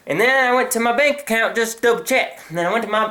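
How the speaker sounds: lightly slipping into a southern drawl. Real, not acted. Telling the bank story, accidental southern drawl. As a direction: let a slight southern drawl creep in. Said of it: "I'm going into a southern drawl".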